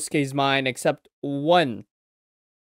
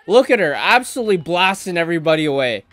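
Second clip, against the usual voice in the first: louder, hyped repeat of the words Look at her; excited; 5 dB louder, faster than usual. Real, not acted. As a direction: point it out again with more excitement. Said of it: "Bro, Yamato is strutting".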